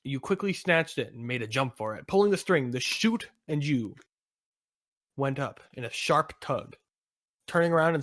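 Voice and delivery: emphatic adventure narrator; story narration. Acted. Narrator telling of the jump, story narration. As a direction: narrate the parachute leap.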